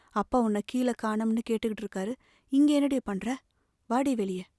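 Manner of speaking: scolding mother. Acted. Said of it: "தாய் வந்து மிரட்டினாள்".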